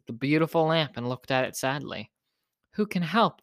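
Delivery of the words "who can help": high-pitched little mouse question; small higher voice pleading; baby mouse. A narrator's reading. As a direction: ask as a tiny, worried creature. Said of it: "the baby mouse asked".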